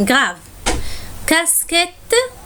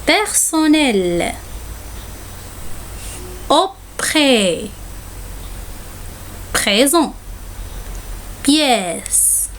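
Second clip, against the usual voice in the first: lire les mots de la dictée lentement, un par un; dictée lente; 4 dB quieter, much slower than usual. Shown as a demonstration. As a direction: comme une maîtresse qui dicte à la classe. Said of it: "Je vais vous lire les mots". (la maîtresse dicte chaque mot lentement à ses élèves)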